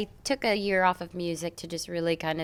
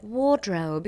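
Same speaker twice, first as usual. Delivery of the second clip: British pronunciation of "Wardrobe"; British accent. Retold or imitated. Singer showing the glamorous British word, British accent. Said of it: "And they're like".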